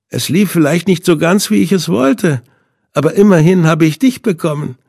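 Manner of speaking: villain's voice. A narrator's reading. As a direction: savour every word like a sadist. Villain Hinde gloats.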